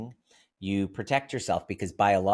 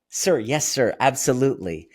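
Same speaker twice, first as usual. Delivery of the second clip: raised, eager-to-please agreement; fawning waiter; 4 semitones higher, 6 dB louder than usual. Retold or imitated. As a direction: placate an angry customer with performed niceness. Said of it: "That's fawning".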